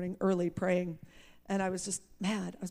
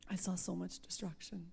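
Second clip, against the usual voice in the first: softer repeat of I saw so much destruction; quiet repeat; 9 dB quieter than usual. Real, not acted. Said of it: "But, you know, because I saw so much destruction".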